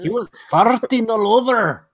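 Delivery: high mock Scottish accent; hammed-up Scottish accent. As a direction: roll it out in a Scottish brogue. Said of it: "gotta say it in a Scottish accent".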